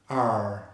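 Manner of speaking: held "R" with tongue pointed up; voiced R. Shown as a demonstration. Teacher showing how to make the sound, voiced "R". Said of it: "we need to use our vocal cords".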